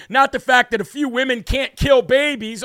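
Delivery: loud, heated rant; ranting shout. Real, not acted. Host blasting Democrats over abortion, shouting. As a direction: shout it at the screen in outrage.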